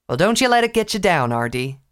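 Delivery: bright southern encouragement; cheery country voice. Acted. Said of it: "Applejack said cheerily".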